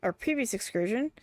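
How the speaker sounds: lightly acted character dialogue; gently performed NPC voices; voicing game characters. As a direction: read the quest lines with a little theatre.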